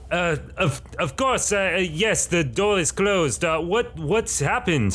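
high, eager voice of Salty Sim answering; Salty Sim's voice. Acted. Sim answering his friend about the door, high eager voice. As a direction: pitch way up as the eager sidekick. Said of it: "I'll call out to Sim".

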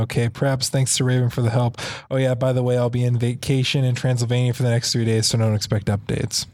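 low, fast sneering rattle; mock snotty reread. Shown as a demonstration. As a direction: rattle it off like a bratty author. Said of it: "I said".

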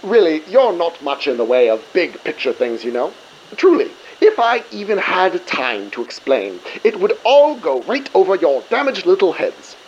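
a light Cockney-stereotype villain voice; a hint of a Cockney bad guy taunting the crew; villain lightly putting on a Cockney accent. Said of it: "when he did it like a Cockney stereotype".

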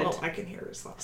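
hushed, secretive and soft; very quiet. Pretend. Player confiding she hears his thoughts, very quiet. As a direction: say it under your breath. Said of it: "I was talking so quiet".

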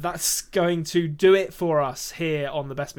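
slow, even robot voice. Pretend. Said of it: "In a robot voice".

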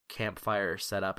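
normal talking voice

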